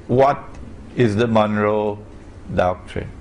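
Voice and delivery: ordinary talk, nothing marked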